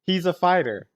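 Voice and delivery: usual speaking voice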